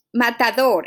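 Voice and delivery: "matador" with stressed final DOR; teacher demonstrating "matador" with end stress; stress on last syllable. Shown as a demonstration. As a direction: say "matador" leaning on the closing DOR. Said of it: "the stress is in the last syllable".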